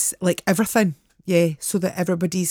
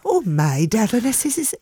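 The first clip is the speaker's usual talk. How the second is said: put-on old lady voice; 7 semitones higher, 3 dB louder, slower than usual. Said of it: "And I said to her".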